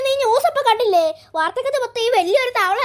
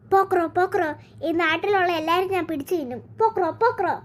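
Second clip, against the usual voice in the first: boastful greedy frog; 2 semitones lower than usual. Acted. Frog boasts it will eat all.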